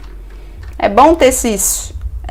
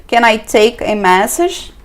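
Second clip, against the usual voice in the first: slow model phrase; slower than usual. Shown as a demonstration. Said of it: "Gostaria de deixar um recado, ou".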